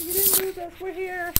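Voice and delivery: very high little put-on voice; squeaky chorus of mock viewers checking in; voicing the audience. Host plays viewers after a dropout, high put-on voice.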